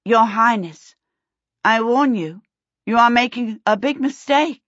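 a touch of suppressed laughter in a warning; wobbly. A narrator's reading. Sophie warning the prince while trying not to laugh, wobbly. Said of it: "Her voice came out wobbly".

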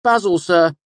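nervous student. A narrator's reading. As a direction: answer awkwardly. Late boy answers.

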